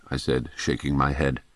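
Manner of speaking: ordinary delivery, nothing marked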